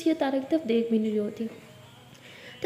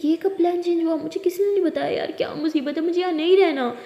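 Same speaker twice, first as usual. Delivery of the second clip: higher-pitched irritated grumbling; put-out, raised-voice protest; annoyed complaint; 3 semitones higher than usual. Acted. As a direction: complain in exasperation at the news. Sister annoyed at changed plan.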